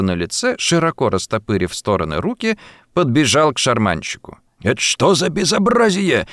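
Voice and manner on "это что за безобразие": ordinary delivery, nothing marked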